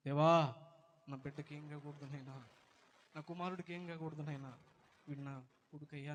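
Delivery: pleading loudly to God over her son; loud desperate prayer. Acted. Mother praying at her son's bed, pleading loudly. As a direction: cry out to God, begging for the child.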